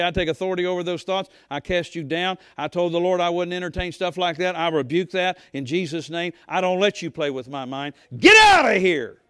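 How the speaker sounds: building preacher's rebuke ending in a yelled "Get out of here"; rebuking the devil. Shown as a demonstration. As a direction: cast the thoughts out with full force. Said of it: "In English, I may say".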